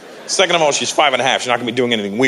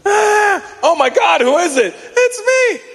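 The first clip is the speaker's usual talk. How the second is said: panicked shouting; slower than usual. Retold or imitated. A couple hearing someone fall down the stairs, high mock-panicked shouting. Same fall scene repeated.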